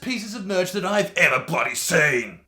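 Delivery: loud, high hype shout over the top; screaming like a madman. Real, not acted. Host announcing record merch sale to fans, screaming like a madman. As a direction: yell it full blast like a manic announcer. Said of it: "screaming at the camera like a madman".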